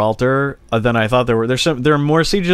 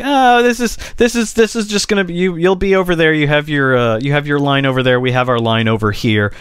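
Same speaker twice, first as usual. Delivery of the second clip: lightly voiced, carefree official pretending all is fine; mock diplomat voice; 2 semitones higher than usual. Mock quote of diplomats' deal.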